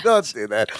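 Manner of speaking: low, lightly voiced Balky reproach; Balky scolding. Balky to his cousin after the howl, low mock reproach.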